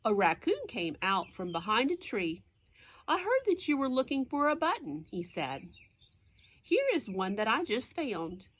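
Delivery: clear, lively picture-book narration; reading to children. A narrator's reading. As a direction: read it out to little listeners.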